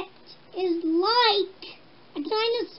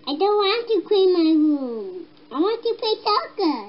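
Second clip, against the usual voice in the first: mad; 4 dB louder than usual. Acted. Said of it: "I'm so mad".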